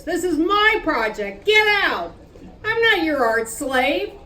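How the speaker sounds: proud furious artist; angry. Acted. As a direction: claim it as yours, hard. Acted quarrel, claiming the project.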